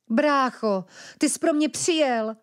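put-on a girl's voice touched with joy; joyful reunion. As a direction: throw your arms around your brother. Sister hugs her brother.

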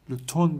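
لوتون as "lo-TON", silent "m", clear final "n"; modelled pronunciation. Shown as a demonstration. Teacher showing pupils the French for autumn, modelled pronunciation. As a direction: say لوتون as two syllables ending in "-ton". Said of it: "تلفظش لوتون هست".

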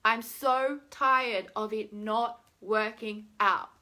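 loud, slow, emphatic complaint; drawn-out venting; fed up. Shown as a demonstration. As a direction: spell out the weariness word by word.

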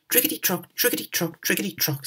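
rattling coaches. Acted. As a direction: chant it like wheels on the track. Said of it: "said the coaches".

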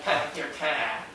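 slow, nasal Norfolk whine on "Pack your cat."; "Pack your cat." said slowly through the nose, Norfolk style. Shown as a demonstration. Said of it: "It's in the nose".

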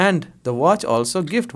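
very slow, word by word; slow teaching read. Shown as a demonstration. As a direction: drill it slowly for the class. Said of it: "slow translation for learners". (बहुत धीरे पढ़ाते हुए)

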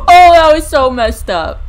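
spooked giggle; shaken laugh. Real, not acted. After jump scare.

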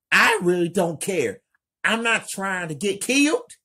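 high, loud, fast frightened outburst; nervous. Acted. Kelly refusing to go out, high fast nervous outburst. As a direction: rattle it off in panic.

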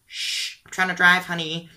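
put-on a mom shushing her kid while driving; annoyed mom. Mom voice in imagined scene.

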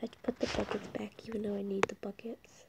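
whisper. Real, not acted. Annoyed at own mistake.

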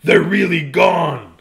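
loud, drawn-out cry of relief; elated storybook exclamation; triumphant yell. Acted. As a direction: shout it slowly to savor it. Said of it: "he yelled".

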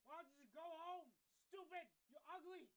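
mock insult. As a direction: tease your friend, not meaning it. Teasing friend.

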